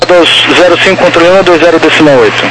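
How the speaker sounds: tinny radio transmission; crackly military radio. Real, not acted. Air traffic control radio.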